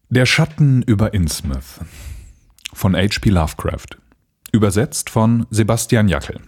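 calm measured storytelling; story narration. Acted. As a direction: read it like an audiobook. Reads Lovecraft aloud. (ruhige Vorlesestimme)

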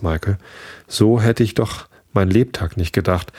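ruhige Vorleserstimme für ein Märchen; erzähl es wie eine Gutenachtgeschichte; Märchen vorlesen. A narrator's reading. Reads a fairy tale aloud. (Märchen vorlesen, gleichmäßig erzählend)

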